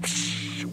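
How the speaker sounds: psh of water on hot rocks; sharp rush of escaping steam; imitated steam hiss.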